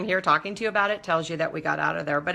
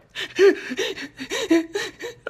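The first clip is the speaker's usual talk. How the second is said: half-laughing, half-sobbing whimper; a teary laugh at her own despair; mock sob breaking into a laugh; laugh-cry; 12 semitones higher than usual. Stuck on cliff, crying.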